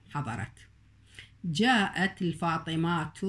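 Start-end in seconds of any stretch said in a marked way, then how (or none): 1.4-3.2 الفاطمات ending on a clear t; slow demo. Shown as a demonstration. Teacher showing the t heard at the pause. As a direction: say الفاطمات slowly and stop on the t. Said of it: "التاء تلفظ عند الوقف عليها".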